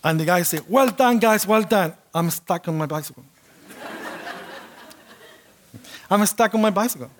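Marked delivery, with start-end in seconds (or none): 0.7-1.9 higher, louder cheery praise; lightly voiced coach congratulating the class; lightly voiced instructor cheering the class at the end; a hint of the instructor. 6.1-7.1 faster, laughing through the words; amused repeat, breaking into laughter. Real, not acted.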